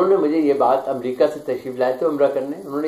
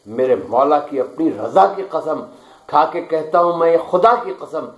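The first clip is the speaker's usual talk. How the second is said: measured, declaiming poetry recital; stately nazm recitation; 4 dB louder than usual. Acted. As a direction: recite each line with weight. Poet recites his nazm. (پُروقار نظم خوانی)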